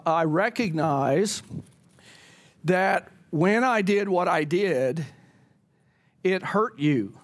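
slow, sincere admission; mean every word, slowly; earnest, unhurried "I recognize"; genuine apology. Shown as a demonstration. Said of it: "that genuine sense of".

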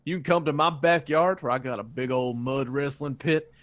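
cheesy local ad read; ad announcer. Acted. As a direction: pitch it like a backyard TV ad. S0 performs a fake radio ad.

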